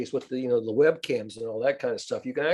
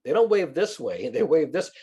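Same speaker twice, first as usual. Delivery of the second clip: hick wave demo; 3 semitones higher than usual. Shown as a demonstration. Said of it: "like a hick".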